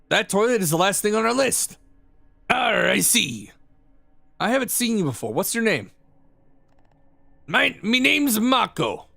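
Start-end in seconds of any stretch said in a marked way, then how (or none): 2.5-5.9 gruff hearty pirate, a touch higher. Acted. Imaginary pirate friend calling out from the stall, hearty pirate voice. 7.5-9.1 gruff hearty pirate, a touch higher. Acted. Imaginary pirate friend calling out from the stall, hearty pirate voice.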